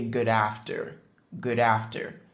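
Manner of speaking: good after linked as one word, d running into after; liaison. Shown as a demonstration. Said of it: "la liaison entre good et after". (good after, avec la liaison)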